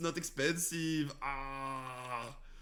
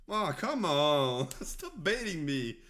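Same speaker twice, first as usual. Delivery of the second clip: mock frustration; 3 semitones higher, 5 dB louder, slower than usual. Real, not acted. Frustrated at bait card.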